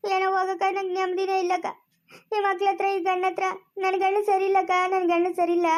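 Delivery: weepy, acted complaining; tearful lament. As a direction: pour out your misery, crying. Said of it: "ಅಳ್ಬೇಡ, ಸುಮ್ನೆ ಇರು".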